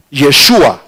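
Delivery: "Yeshua" set apart, sh sound, falling ending; Aramaic pronunciation demo. Shown as a demonstration. Preacher showing the Aramaic name, "Yeshua" pronounced deliberately. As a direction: model "Yeshua" with stress on SHU. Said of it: "la pronunciación está entre paréntesis".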